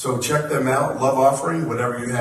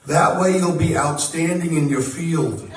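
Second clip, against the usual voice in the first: a punchline in mock Long Island mom accent, higher and louder, laughing; slow, laughing Long Island mom shout; a son imitating his mom's Long Island accent, delivering the joke; 6 semitones higher, 5 dB louder, slower than usual. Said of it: "in her Long Island accent".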